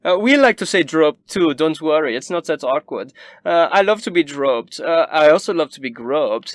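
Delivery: high, loud teasing aristocrat; snooty noble. Acted. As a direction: tease the guest playfully. Noble teases the guest.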